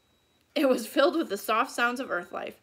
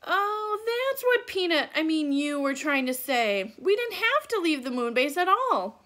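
put-on a little girl's voice, higher and louder; light, eager girl realizing the truth; excited young girl; 5 semitones higher, 4 dB louder than usual. Annie realizing what Peanut meant to Morgan, eager and higher.

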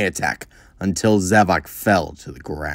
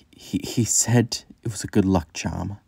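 whisper; 7 dB quieter than usual. Acted. Grieving princess recalls father.

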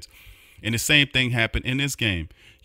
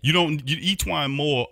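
higher, incredulous mock outburst; exasperated disbelief; 7 semitones higher than usual. Retelling his reaction to the Cleveland matchup, exasperated. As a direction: scoff at the coach as if he's lost it. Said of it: "I was like".

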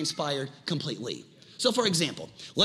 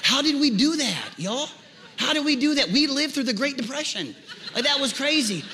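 laughing; 8 semitones higher than usual. Real, not acted. Laughing at old TV days.

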